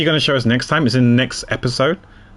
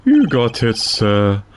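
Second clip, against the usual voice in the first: detective character voice; slower than usual. Acted. Reads detective character lines.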